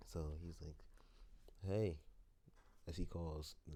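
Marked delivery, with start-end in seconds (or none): 1.7-2.0 calling out. Acted. Izuku calls out to Stain.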